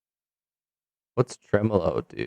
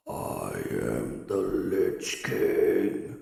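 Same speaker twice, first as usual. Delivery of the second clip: Lich King; 2 semitones lower, 3 dB quieter, much slower than usual. Pretend. Announces himself as Lich King.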